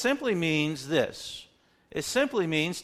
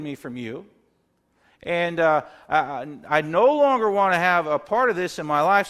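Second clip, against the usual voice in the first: earnest prayer; 3 dB louder than usual. Retold or imitated. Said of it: "we come to Him saying".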